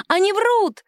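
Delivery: high, loud shrieking cry; shouting. A narrator's reading. Woman screams that the witnesses lie. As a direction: scream the accusation. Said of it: "закричала".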